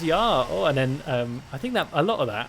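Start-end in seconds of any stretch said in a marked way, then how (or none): 0.0-0.4 mock-German "ja", lifted in pitch; camp German accent. Shown as a demonstration. Gamer showing the usual German imitation, camp German accent. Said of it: "Whenever you do German, it's just".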